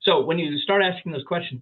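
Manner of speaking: ordinary talk, nothing marked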